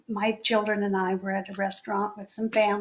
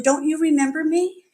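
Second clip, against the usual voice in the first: laughing greeting; 5 semitones higher, 5 dB louder than usual. Retold or imitated. Mike greets her, laughing.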